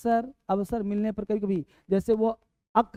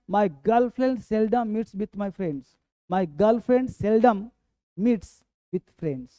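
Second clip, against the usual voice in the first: stretched, slow teaching read; slow model sentence; much slower than usual. Shown as a demonstration. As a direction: spell it out slowly for learners. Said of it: "teacher models sentence slowly".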